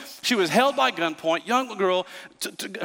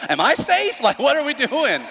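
retold fear; 7 semitones higher than usual. Retold fearful question.

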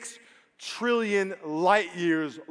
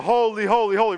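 "Holy, holy, holy" called out louder, ringing like angels crying out; 4 semitones higher, 6 dB louder than usual. Shown as a demonstration. Pastor shows the crowd the angels' cry, called out loud. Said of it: "we're gonna say it like they said it".

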